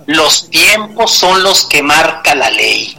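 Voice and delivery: slow, measured mock politician's answer; a hint of evasive officialese, slowly delivered; old-school politician. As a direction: lightly imitate a politician reciting a stock reply. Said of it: "le sale la voz de un político".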